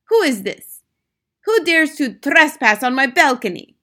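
loud, high outraged demand; indignant witch. A narrator's reading. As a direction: challenge the trespasser imperiously.

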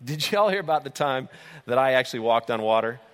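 略带变化的声音扮演吹嘘的彼得; 像得意地讲老故事的渔夫一样轻松炫耀; boastful Peter. Retold or imitated. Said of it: "Peter always could whip out".

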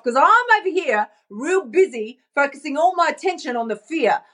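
a touch of flustered busyness, pitch lifting; mock brush-off. Woman putting off her dreams while she's busy, mock flustered. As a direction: wave them off, lightly acting too busy. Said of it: "And you're going".

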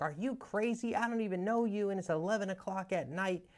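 high-pitched mock disbelief; incredulous Ken. Ken to the cold caller at eleven, high incredulous voice. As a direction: play him as a man who thinks the caller's lost it. Ken refusing stranger's late call.

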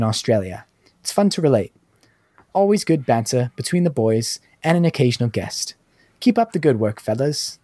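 lightly put-on, slightly British-sounding Australian accent; imitating a South Australian reviewer's accent. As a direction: read it out in an attempted posh South Australian accent. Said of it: "a South Australian accent is, like, a slightly more British Australian accent".

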